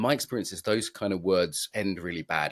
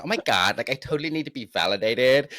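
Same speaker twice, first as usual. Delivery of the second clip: a touch higher, valley-girl mock gushing; mock girlfriend; 4 semitones higher, 3 dB louder than usual. Redneck guy mimicking his partner's demand, mock gushing. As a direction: lightly parody a girlfriend's gush. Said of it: "like, a dumb dude from a redneck state".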